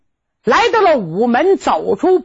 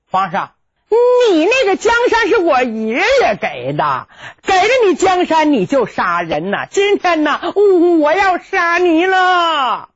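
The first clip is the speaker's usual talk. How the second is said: defiant threat; 3 semitones higher than usual. Acted. Boy threatens the emperor.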